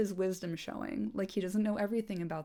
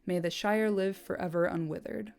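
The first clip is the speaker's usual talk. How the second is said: measured, storyteller reading voice; audiobook-style reading of a fantasy novel; story narration. A narrator's reading. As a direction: read the book passage aloud to listeners. Reads book passage aloud.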